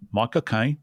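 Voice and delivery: Michael Caine in a light Cockney accent. Shown as a demonstration. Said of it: "it goes like this".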